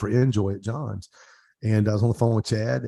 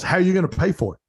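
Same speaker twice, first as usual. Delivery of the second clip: friend's question; 7 semitones higher, 5 dB louder, faster than usual. Retold or imitated. Nate asks the retold question.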